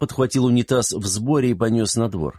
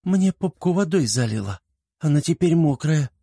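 put-on high-pitched child's voice; childish high-voiced grievance; little girl complaining; 8 semitones higher than usual. A narrator's reading. Little girl complains after getting wet.

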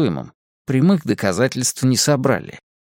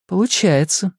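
a higher, quick agreeing reply; cutting in to agree; 6 semitones higher than usual. A narrator's reading. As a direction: finish his thought for him. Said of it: "согласилась Настя, не дав ему договорить".

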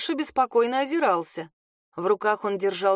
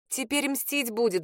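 heavy sigh; 3 semitones higher, 3 dB quieter than usual. Acted. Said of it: "вздохнула я тяжело".

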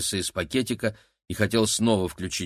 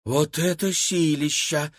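awed exhale; 6 semitones higher, slower than usual. A narrator's reading. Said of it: "выдохнула Кира".

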